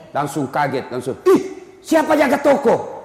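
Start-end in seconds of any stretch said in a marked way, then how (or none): 1.2-3.0 higher, louder startled cry; startled panic. Retold or imitated. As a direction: jolt up in alarm about the shop. Dying man panics about shop. (kaget panik soal toko)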